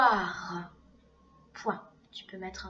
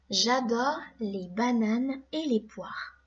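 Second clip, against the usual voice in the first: dictation read; slower than usual. Shown as a demonstration. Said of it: "deuxième phrase".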